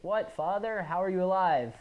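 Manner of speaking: high stunned cry; shocked disbelief. Retold or imitated. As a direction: gasp it out in disbelief. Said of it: "And Oden's like".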